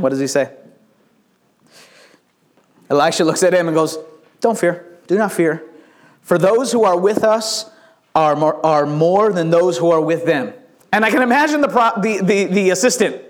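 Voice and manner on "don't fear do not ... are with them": calm reassurance. Acted. Prophet reassures frightened assistant.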